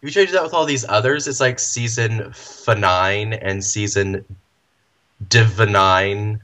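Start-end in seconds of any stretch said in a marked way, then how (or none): 1.6-6.4 "Finine" and "Divinine" drawn out slowly; awkward made-up names. Shown as a demonstration. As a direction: spell out the clunky "Divinine", syllable by syllable. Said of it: "And it just sounds weird".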